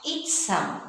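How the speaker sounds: its said as a crisp ch; its, a clean ch; ch sound. Shown as a demonstration. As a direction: give the ch sound. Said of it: "What sound?".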